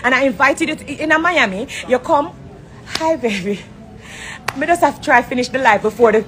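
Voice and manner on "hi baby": mock fake greeting. Mocks Erica's fake greeting.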